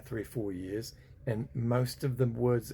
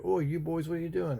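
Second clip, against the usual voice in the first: a higher, lightly played English policeman; lightly voiced bobby; 7 semitones higher, 3 dB louder than usual. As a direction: question the boys like a copper. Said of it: "And the Bobby was like".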